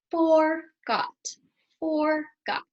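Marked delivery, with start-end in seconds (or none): 1.8-2.6 breathy whisper, no voice. Shown as a demonstration. Teacher showing a way to say a word, whispering. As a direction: whisper the word forgot to the class. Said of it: "There's lots of ways you can do it".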